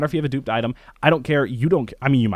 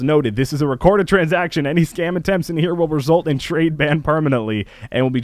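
mock-official warning, pitched a little up and firm; all caps; 3 semitones higher than usual. Scammer posing as Steam rep warns traders, in mock all caps. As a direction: read it out like an all-caps notice. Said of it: "In all caps".

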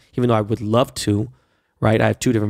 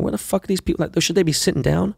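baffled; 6 semitones higher than usual. Retold or imitated. Retold bafflement at standing passengers.

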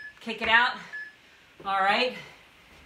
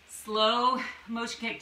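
drawn out slowly like the move; slower than usual. Shown as a demonstration. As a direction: say it in slow motion, stretched. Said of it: "so it's like a slow motion kick".

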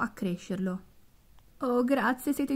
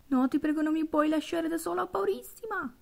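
pleading; 7 semitones higher than usual. Acted. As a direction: beg him not to leave her. (supplica impaurita)

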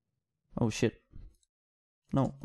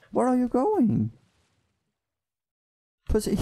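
taunting yell; 3 semitones higher than usual. Real, not acted. Yelling at fleeing mob.

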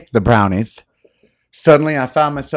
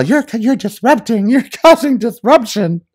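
mocking Kellyanne; 7 semitones higher than usual. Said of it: "she spoke to her daughter that way".

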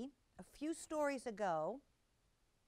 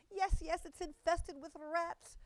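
high, louder and slow tearful cry; tearful cat mother; 8 semitones higher, 4 dB louder, slower than usual. A narrator's reading. Tabitha complains to Ribby about rats, high and tearful. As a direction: sob the words out high and slowly. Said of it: "said Tabitha tearfully".

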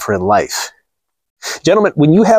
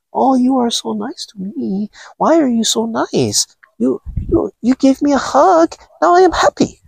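mock docile woman; 11 semitones higher than usual. Mocking a docile woman for his viewers, high and sweet. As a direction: play a meek, grateful woman. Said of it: "docile Japanese or Asian woman who is just like".

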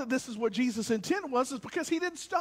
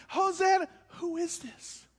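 crowd cheering; 6 semitones higher than usual. Retold or imitated. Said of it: "And they're like".

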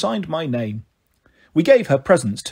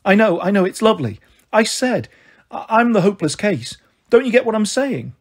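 higher-pitched, agitated insistence; acted exasperation, pitched up; flustered; 5 semitones higher than usual. Mother insisting she is the hopeless case, flustered. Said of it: "starting to get red in the face".

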